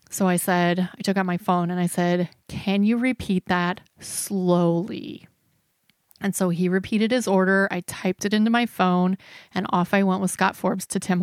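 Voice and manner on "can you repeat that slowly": slow, careful request; drawn-out slow request. Retold or imitated. Confused passenger asks friend to repeat the coffee order, slowly. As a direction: ask it slowly, drawing out the words.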